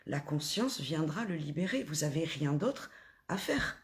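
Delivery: calm guided meditation voice. Acted. Guides listeners to observe feelings.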